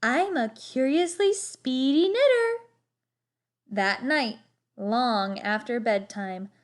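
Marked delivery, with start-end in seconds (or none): 0.0-2.7 put-on higher, proud old lady voice; Cousin Clara. A narrator's reading. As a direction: chirp it like a pleased old aunt. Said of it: "said Cousin Clara".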